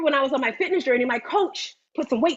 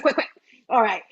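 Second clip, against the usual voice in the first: usual speaking voice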